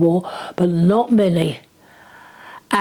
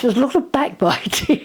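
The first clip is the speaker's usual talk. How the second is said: laughing; 5 semitones higher than usual. Real, not acted. Amused gossip about neighbours.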